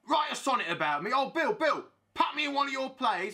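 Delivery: high, imitated fan begging; pestering fans. Fans begging Bill for a part, high mock pleading. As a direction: mimic an over-eager admirer's plea. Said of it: "people come up to me in the street and say".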